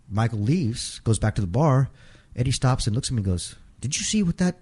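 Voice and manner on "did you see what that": irritated retelling. Retold or imitated. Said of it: "Eddie's pissed".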